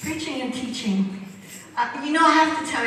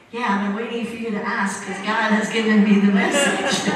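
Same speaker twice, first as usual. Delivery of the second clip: laughing; 6 dB louder than usual. Retold or imitated. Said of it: "he looks at me and goes".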